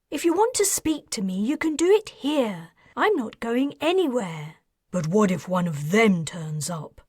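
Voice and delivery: lightly voiced woman, impatient; scornful woman voice. Heroine voiced in dialogue.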